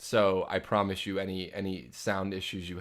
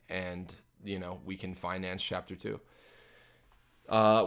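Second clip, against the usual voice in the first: usual speaking voice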